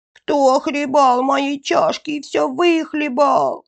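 high little-bear squeal; thin squeaky voice. A narrator's reading. Bear cub finds his bowl empty, thin high squeak. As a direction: pipe it up high like a tiny cub. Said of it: "запищал тонким голосом".

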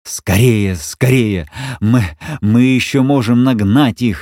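breathless, gasping words; panting as he runs; out of breath. Acted. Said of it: "задыхаясь".

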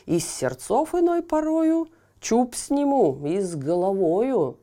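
loud, swaggering royal threat; boastful stern tsar. Acted. (грозный хвастливый царь)

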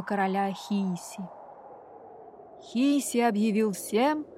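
громко и грозно читает сказку; читай сказку с нагнетанием; драматичное чтение сказки. A narrator's reading. (драматичное чтение сказки)

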